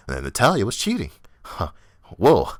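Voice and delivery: mock an excitable ringside announcer calling moves; squealing play-by-play parody; hyped announcer. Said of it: "everybody can be out there giving some type of".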